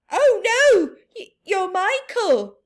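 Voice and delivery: high, loud gasp of recognition; shocked recognition. Acted. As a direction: realize it's your own son. Mother recognizes son.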